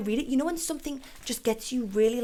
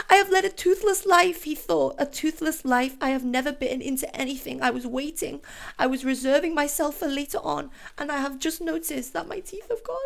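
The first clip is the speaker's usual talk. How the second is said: higher, tearful re-read; upset, higher-pitched recital; emotional reading; 5 semitones higher than usual. Real, not acted. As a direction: read it again as it gets to you. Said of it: "I feel really emotional".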